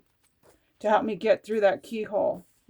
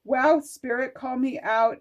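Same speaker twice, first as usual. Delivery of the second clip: mock surprise; 5 semitones higher, 6 dB louder than usual. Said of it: "I'm like".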